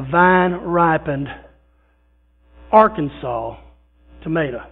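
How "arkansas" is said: Arkansas drawn out and set apart after a pause; emphasis on Arkansas. Shown as a demonstration. Preacher to congregation praising tomatoes, stress on Arkansas. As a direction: lean on Arkansas, slow and proud. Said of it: "And the emphasis on Arkansas".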